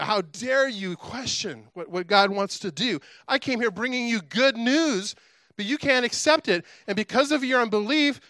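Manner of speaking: acted-out huffy rebuke; getting ticked. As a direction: scold like an offended angel, pitch rising. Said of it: "He's getting ticked".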